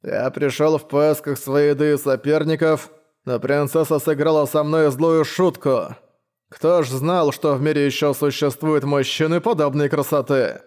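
lisping knight voice; slushy lisp. Acted. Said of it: "Странный шепелявый голос".

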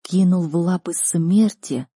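slow, dazed disbelieving question; understated shock; stunned echo. Acted. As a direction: repeat it slowly, struggling to take it in. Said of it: "выпадая из реальности от услышанного".

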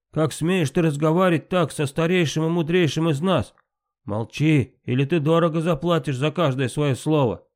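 a mild narrated yell of outrage; shouting. A narrator's reading. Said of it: "закричал Тир".

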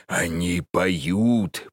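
slow, dreamy insistence; slow insistent repeat. Acted. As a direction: repeat it slowly, entranced. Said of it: "повторил старик".

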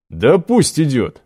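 slow, drawn-out easy call; joker voice. Acted. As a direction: toss it off like a joker. Joker speaks up.

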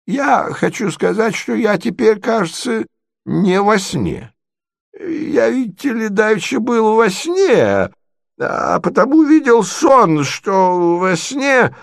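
put-on high, bewildered old prince voice; a muddled old man fumbling his words; confused old prince. Old prince flustered before the ladies, high and bewildered.

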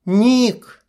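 loud high call across the camp. A narrator's reading. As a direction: call his name loudly. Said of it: "позвала девушка". (громкий оклик)

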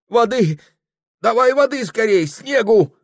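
high, hurried call for water; frantic call. Acted. Hunchback Luka calls for water after she faints, high and hurried. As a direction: fuss in a panic. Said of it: "засовался горбун Лука".

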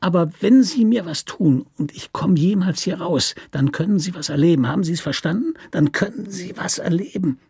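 mild snarling menace; snarled threat. Acted. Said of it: "Er keifte jetzt doch nicht lauter als vorhin".

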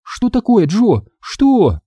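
put-on high-pitched caring girl; tender concern. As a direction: ask gently, in a high voice. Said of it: "ласково спрашивает Минди". (ласковый высокий голос)

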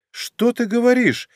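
usual speaking voice

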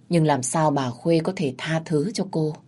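ordinary delivery, nothing marked

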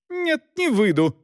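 high, stubborn lady's voice; wife refuses her husband in a high stubborn voice; stubborn refusal. A narrator's reading. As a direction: dig in your heels. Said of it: "упрямилась жена".

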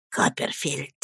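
very soft, low voice; barely audible. A narrator's reading. Slapped man finally speaks to Copperfield, barely audible. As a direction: say the name low, almost inaudibly. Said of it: "произнёс он едва слышно".

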